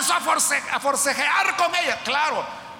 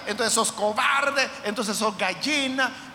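burla del mundo; 2 semitones lower, slower than usual. Retold or imitated. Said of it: "el mundo diga".

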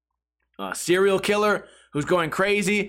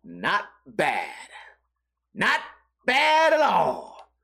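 birdwatcher's not bad; much slower than usual. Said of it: "And he goes".

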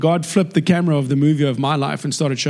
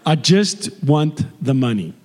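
put-on slow, deliberate American accent; 2 semitones lower than usual. Customer asking the teller for quarters, put-on American accent. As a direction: ask carefully in an American accent. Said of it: "I flip into an American accent".

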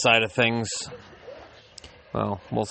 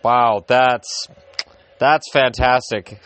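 excited; 2 semitones higher, 6 dB louder, much slower than usual. Real, not acted. Surprising goal while watching hockey.

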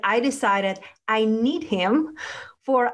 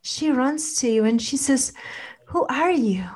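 guided meditation. Acted. Leads a relaxation visualization.

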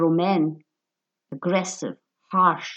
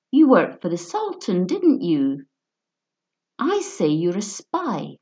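put-on drunken bully.

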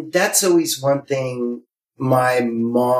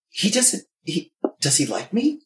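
put-on smitten girl; 4 semitones higher than usual.

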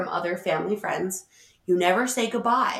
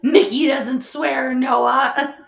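mock scolding; 5 semitones higher, 5 dB louder, much slower than usual. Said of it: "I'm like".

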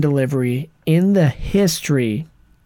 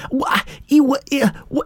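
higher, halting stammer; 9 semitones higher than usual. Retold or imitated. Mocking the actress stammering through an improv, higher. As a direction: keep starting words and stop. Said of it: "And she's like".

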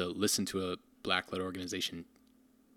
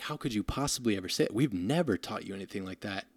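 mildly upset mother. Retold or imitated. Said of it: "She was so upset".

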